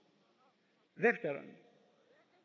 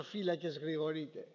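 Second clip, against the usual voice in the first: the same call, softer and lower; faint, lower echo of the guard's call; call fading away; 4 semitones lower, 5 dB quieter than usual. Retold or imitated. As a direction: let the watch call die out, quietly. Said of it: "το".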